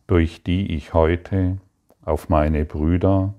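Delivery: earnest, lifted prayer voice. Acted. Teacher prays aloud to the Father, earnest and heartfelt. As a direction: pray it with devotion to the Father.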